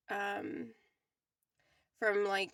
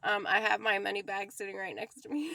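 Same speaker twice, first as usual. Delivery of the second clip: laughing; 3 dB louder, faster than usual. Real, not acted. Showing her money bag, laughing.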